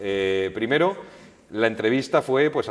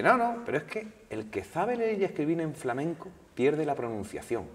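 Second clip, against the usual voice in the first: put-on high, insistent Andalusian accent; 6 semitones higher than usual. Singer explaining flamenco pronunciation, Andalusian accent. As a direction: correct the reporter firmly in a Jerez Andalusian accent, pitched up. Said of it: "con su acento así".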